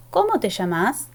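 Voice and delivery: ¿Cómo te llamas? asked with a rising tune; rising question tune. Shown as a demonstration. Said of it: "tiene una entonación ascendente". (entonación ascendente en ¿Cómo te llamas?)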